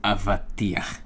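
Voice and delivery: avatiach with a throaty ch at the end; Hebrew word said. Shown as a demonstration. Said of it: "So we have the word".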